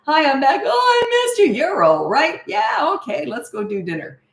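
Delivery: light, happy reunion with no fuss; cheerful hello. Shown as a demonstration. Parent picking up the child, short bubbly hello. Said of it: "when you say hello".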